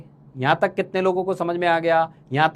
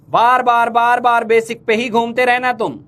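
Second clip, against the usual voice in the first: raised voice, higher and louder, fed up; exasperated scolding; 5 semitones higher, 3 dB louder than usual. Real, not acted. Teacher scolds a student who keeps repeating basics, exasperated. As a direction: scold him for circling back to basics again and again.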